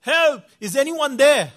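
high, loud cry for help; retold shout for help. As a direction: call out loudly to anyone within earshot. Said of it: "all he could shout is".

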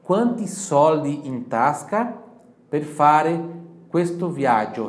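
slow, loud and careful; slow model phrase. Shown as a demonstration. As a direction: model it for the class to repeat. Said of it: "Repita em voz alta".

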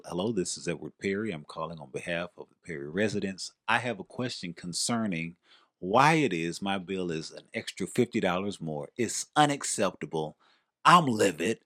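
lightly imitated formal caller voice; switched phone voice. Imitating mom calling about a bill, mildly formal phone voice. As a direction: switch into mom's proper, businesslike bill-dispute voice. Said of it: "she would do this voice switch".

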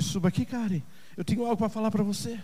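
soft, quiet voice of God; understated intimate summons; gentle personal call. Acted. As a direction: invite one listener in a hushed tone. God calls a member by name.

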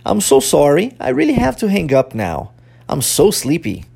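clearly spoken drill sentences; pronunciation model. Shown as a demonstration. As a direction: join the phrases into one careful demonstration. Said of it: "Vamos juntar as duas".

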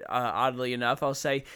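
ordinary delivery

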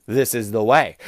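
deadpan the catchphrase low and grave; solemn Mandalorian line. Retold or imitated. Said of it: "you can use This Is the Way as anything".

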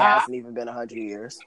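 laughing through the words. Real, not acted. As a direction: say it while chuckling. Repeats it while laughing.

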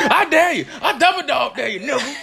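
high, loud laughing taunt; teasing playground dare; mock dare. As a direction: egg the kid on, laughing.

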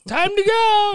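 high, loud mom voice; mom's stern order. Retold or imitated. Mom calling her son to leave for church.

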